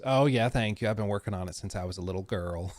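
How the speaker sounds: lightly imitated Southern accent; a touch of Southern drawl, kept low and soft. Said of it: "she's got the Southern drawl".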